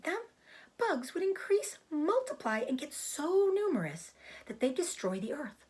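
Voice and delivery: a small spider explaining herself calmly; Charlotte the spider. Acted.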